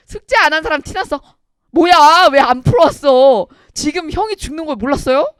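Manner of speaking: loud, high-pitched mock outrage; mock outraged scolding. Teacher to students who skipped the homework, mock outrage. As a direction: scold them at full volume, exaggerated disbelief.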